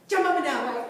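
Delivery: giddy laughing call; excited laughing. Shown as a demonstration. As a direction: bounce through the words laughing. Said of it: "What do you do with your legs?".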